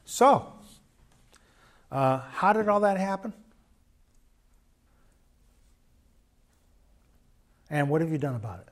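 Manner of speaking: gentle question. Shown as a demonstration. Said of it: "Ask a question".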